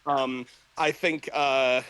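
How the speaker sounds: breathless, slow and halting; gasping between words; out of breath. Real, not acted. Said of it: "sorry, I'm out of breath".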